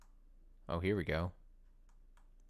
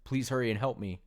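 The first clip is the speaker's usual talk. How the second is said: terrified Monika. Acted. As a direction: scream for help as she's being erased. Voices Monika being deleted.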